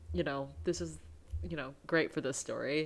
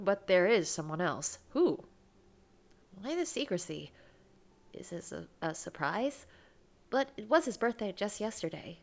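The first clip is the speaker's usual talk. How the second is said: reading a romance game aloud, lightly voiced; expressive read-aloud of a love story; 3 semitones higher than usual. A narrator's reading. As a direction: narrate the scene with gentle feeling. Reads visual novel aloud.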